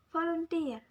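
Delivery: "volunteer" with TEER high, then falling; stress on the suffix. Shown as a demonstration. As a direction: model "volunteer" leaning on its last syllable. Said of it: "The suffixes need to be imposed".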